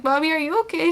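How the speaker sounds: lightly voiced worried little kid. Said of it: "this little kid was just like".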